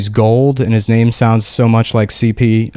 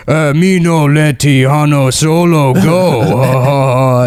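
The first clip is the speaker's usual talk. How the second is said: very slow, garbled alien pig Latin; Jabba voice; 3 semitones higher, much slower than usual. Retold or imitated. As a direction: drag out broken words like Jabba. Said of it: "who just speaks pig Latin".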